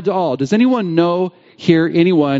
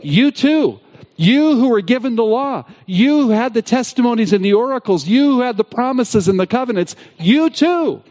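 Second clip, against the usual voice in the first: pleading in a much higher voice, building to the final "you too"; impassioned plea; 6 semitones higher than usual. Retold or imitated. Paul confronting the Jews who had the law, impassioned and rising. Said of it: "writing to the Jews specifically to say".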